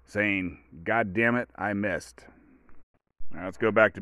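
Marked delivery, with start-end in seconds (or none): 0.8-2.3 lightly voiced booming God, calm and dropping; deadpan punchline as a hint of a rumbling deity; God's rumbly voice. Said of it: "you can hear God's rumbly voice".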